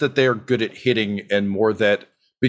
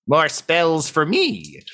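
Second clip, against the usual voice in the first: slow, higher gloating voice; pleased caster; 8 semitones higher, much slower than usual. Acted. Grum watching the punch land, slow and delighted. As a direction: savour the words, greedy for magic. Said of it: "And he says".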